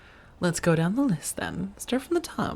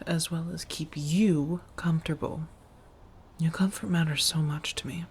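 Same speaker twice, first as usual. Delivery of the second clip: tender whisper. Acted. Reassuring after feeding on listener.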